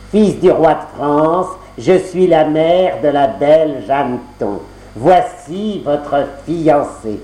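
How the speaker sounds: lente, voix de marâtre trompeuse; présente la fiancée, lentement et sournoisement; marâtre mielleuse. Acted. La marâtre ment au prince. (la marâtre ment au fils du roi, ton lent et mielleux)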